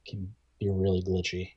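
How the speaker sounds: whispered aside about the glitches. Real, not acted. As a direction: drop to a whisper. Unvoiced aside.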